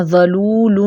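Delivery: ذلول with a thick, heavy ذ, said quickly; heavy zal. Shown as a demonstration. Teacher shows the wrong heavy ذلول. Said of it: "ان کو موٹا نہیں کرنا".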